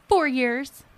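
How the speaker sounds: dry, mocking sarcasm; deadpan it with a sneer; sarcastic. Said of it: "I'm going to so be sarcastic".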